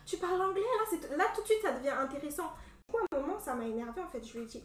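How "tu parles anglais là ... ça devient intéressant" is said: higher, louder imitation of impressed admirers; mock fascination. Imitating people hearing her British accent, mock fascination. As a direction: gush in mock amazement at the accent.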